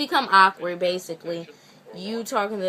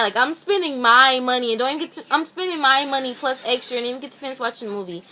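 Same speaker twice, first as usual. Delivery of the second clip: mildly indignant retold rant, louder at first; kinda mad; 2 semitones higher, 4 dB louder, faster than usual. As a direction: complain in a quickening, annoyed rush. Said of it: "So I'm, like, kinda mad".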